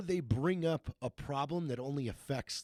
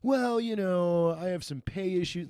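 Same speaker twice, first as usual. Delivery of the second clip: whiny meeting guy; 4 semitones higher than usual. Retold or imitated. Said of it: "that one guy that would be like".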